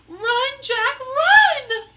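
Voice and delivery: high, loud desperate cry. Acted. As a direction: shriek the warning. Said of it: "cried Annie".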